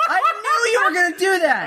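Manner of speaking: laughing it out, amused. Real, not acted. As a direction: say it through a real laugh. Friend predicted the joke.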